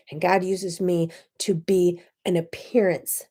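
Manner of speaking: dropping to a whisper; hushed retelling. Retold or imitated. Telling coworker of her faith, in a hushed whisper. Whispered confession in retold reply.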